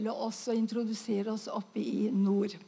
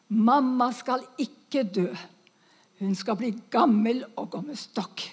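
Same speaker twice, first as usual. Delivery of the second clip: firm, louder declaration of faith; ringing word of faith; 3 dB louder than usual. Retold or imitated. Old missionary declaring over the dying mother, ringing. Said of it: "trosordet som bare gjalla".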